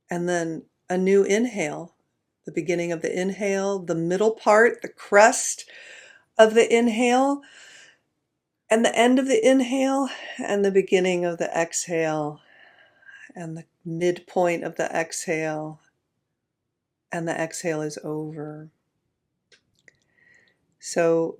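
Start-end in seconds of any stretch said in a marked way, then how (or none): 2.4-10.1 rising with the inhale. Shown as a demonstration. Voice traces the inhale climbing. 10.4-18.7 sinking with the exhale. Shown as a demonstration. Voice traces the exhale falling.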